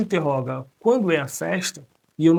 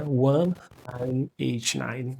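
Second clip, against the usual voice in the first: slow, digit by digit; 2 semitones lower, much slower than usual. Shown as a demonstration. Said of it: "Também é possível falar assim".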